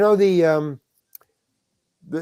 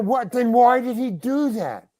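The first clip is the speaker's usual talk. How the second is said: retold dismay; 8 semitones higher than usual. Actor reels at the news.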